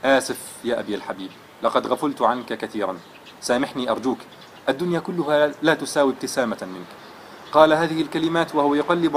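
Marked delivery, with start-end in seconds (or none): 0.0-6.9 a son holding back tears as he apologises; trembling voice. Acted. Son apologising to his father, with a trembling voice. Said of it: "وقال بصوت متهدج".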